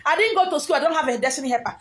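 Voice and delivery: high, whiny complainer's lament; mock self-pitying whine. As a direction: whine it like someone feeling sorry for herself.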